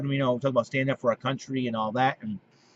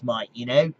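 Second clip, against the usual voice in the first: Australian accent; 3 semitones higher, 4 dB louder than usual. Shown as a demonstration. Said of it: "I talk like Australian like this".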